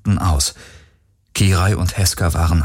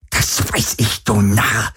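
spitting anger; 3 semitones higher, slower than usual. Acted. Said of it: "Speichel flog zusammen mit Varidors Worten".

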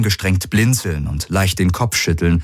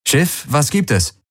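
higher, drawn-out query to the ship; questioning call; 8 semitones higher than usual. A narrator's reading. Both crewmates ask the ship what's up, questioning call. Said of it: "fragten sie beide gleichzeitig".

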